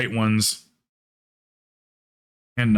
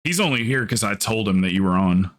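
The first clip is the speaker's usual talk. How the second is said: lightly voiced flat deadpan imitation; 3 semitones lower than usual. Mimicking Stabby's flat deadpan remark in chat. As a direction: say it low and matter-of-fact. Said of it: "Just like that, dude. Not even exaggerating".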